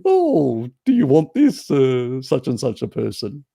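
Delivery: mock ad voice. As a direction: play an eager ad calling out to shoppers. Ads pitched at passers-by.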